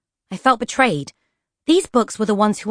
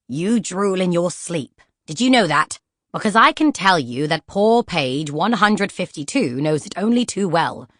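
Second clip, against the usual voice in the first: disapproving. Acted. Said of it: "tutted disapprovingly and said".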